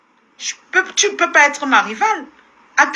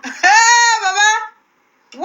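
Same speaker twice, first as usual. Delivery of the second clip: shrieking laugh; 7 semitones higher, much slower than usual. Real, not acted. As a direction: squeal with laughter.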